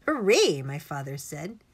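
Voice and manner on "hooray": loud, high hooray; cheering. Acted. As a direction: burst into a triumphant cheer. Father cheers the doctor's revenge.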